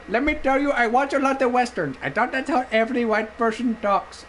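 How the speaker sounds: lightly voiced Indian-accented clerk; imitated Indian clerk. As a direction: explain innocently in a put-on Indian accent. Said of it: "I'm doing it in his voice".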